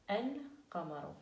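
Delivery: El-qamaru said slowly with a clear L before the q; lam pronounced. Shown as a demonstration. Teacher models the word for the class, slow and clear. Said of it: "on fait el-qamaru".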